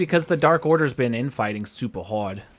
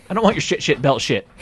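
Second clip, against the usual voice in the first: louder, ranting wrestler voice; mock angry shout; 5 dB louder than usual. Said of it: "Daniel Bryan being like".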